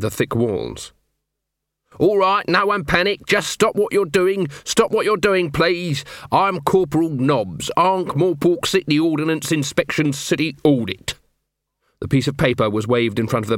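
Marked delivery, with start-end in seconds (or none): 2.0-11.2 lightly voiced officious inspector; bluffing official corporal. Nobby announces a bogus inspection to everyone, officious bluff. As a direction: rattle off a made-up official title as if in charge.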